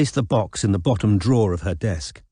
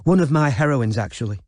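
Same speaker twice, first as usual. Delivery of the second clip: gushing; 4 semitones higher than usual. Acted. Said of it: "gushed Robin".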